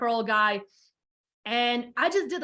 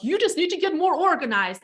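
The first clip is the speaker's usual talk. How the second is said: pitched-up mock helpfulness; mimicking dismissive advice; 6 semitones higher, 3 dB louder than usual. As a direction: imitate a partner's simplistic advice, higher. Mimics Brian's advice in retelling.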